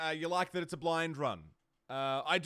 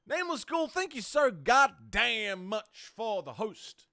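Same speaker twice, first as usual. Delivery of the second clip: excited thanks; 6 semitones higher, 5 dB louder, slower than usual. Real, not acted. Thanking a raid host.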